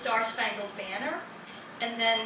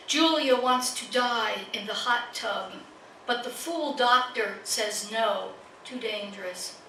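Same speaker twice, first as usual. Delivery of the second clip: measured recital, each phrase falling away at its end; poetry reading. Acted. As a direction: recite line by line, pausing after each image. Begins reading another poem.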